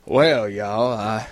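put-on laid-back Southern good old boy; Southern accent. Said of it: "like a Southern guy".

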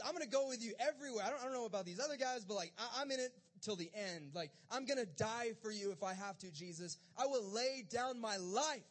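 loud, impassioned disciple's vow; vehement pledge. Acted. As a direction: swear loyalty at rising volume. Peter's vehement pledge of loyalty acted.

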